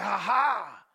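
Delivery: a last cocky laugh before falling; mock boast.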